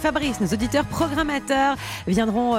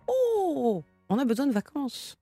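weary sigh; 4 semitones higher than usual. Retold or imitated. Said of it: "si certains se disent".

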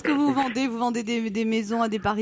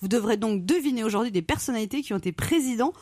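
low sultry purr; languorous voice; 4 semitones lower than usual. Shown as a demonstration. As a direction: seduce the listener with every word. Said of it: "quand je prends une voix comme ça".

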